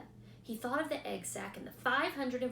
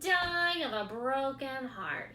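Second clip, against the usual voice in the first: louder, slow mocking echo; mimicking; 4 semitones higher, 5 dB louder, slower than usual. A narrator's reading. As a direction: rat parroting the pig. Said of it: "he mimicked".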